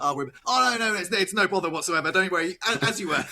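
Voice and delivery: high, overly polite no bother; lightly voiced British passer-by politely declining; polite British brush-off. Mock polite British stranger raising the pitch to wave off the request. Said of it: "It's very British as well".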